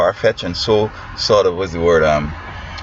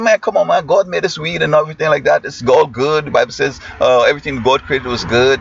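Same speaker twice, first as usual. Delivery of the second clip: higher, lightly voiced student pleading his case; mock a kid brushing it off, higher; pushy student; 5 semitones higher than usual. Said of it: "He said".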